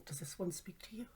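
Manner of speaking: unvoiced teasing whisper. Husband teasing her about crystals, whispered.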